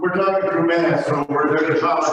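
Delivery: muffled behind a face mask; talking through a mask. Real, not acted. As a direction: speak through a covering mask. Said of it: "they're talking through a mask".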